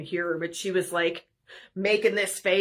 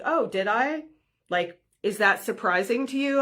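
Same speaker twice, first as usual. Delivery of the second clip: deadpan retort; 3 semitones higher than usual. Retold or imitated. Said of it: "I just straight faced".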